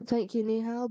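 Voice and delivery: a hint of cowboy accent; accidental cowboy accent. Real, not acted. Gamer thanking Nihal, slipping into a cowboy accent. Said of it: "went into a bit of a cowboy accent".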